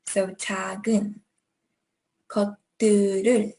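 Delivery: 「작은」 and 「것들을」 linked, fast; connected speech. Shown as a demonstration. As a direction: run 「것들을」 together quickly. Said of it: "there is going to be a G".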